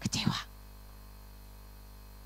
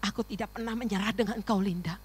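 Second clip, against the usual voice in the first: God speaking softly; 7 dB quieter than usual. Retold or imitated. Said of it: "Tapi ketika Tuhan berkata".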